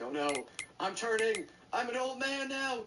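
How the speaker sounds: high-pitched playful lament; hammed-up horror at getting old; mock dismay. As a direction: wail it comically, pitch climbing. Mock dismay at own aging.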